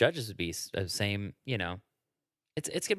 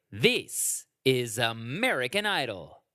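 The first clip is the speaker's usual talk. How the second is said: drawn-out host announcement; slow, stretched announcer read; Ryan Seacrest impression; slower than usual. Friend imitating the host's big intro, slow. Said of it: "he would always say it like that".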